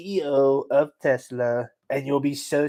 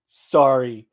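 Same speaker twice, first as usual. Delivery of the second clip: mock sobbing; 3 semitones higher, 3 dB louder, slower than usual. Shown as a demonstration. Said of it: "sobbing apology".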